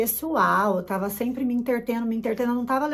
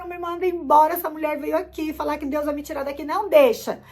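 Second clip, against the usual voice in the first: high-pitched urgent begging, acted out; retold tearful plea; 4 semitones higher, 3 dB louder than usual. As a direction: imitate yourself pleading desperately with the boss. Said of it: "Eu chorei ali mesmo".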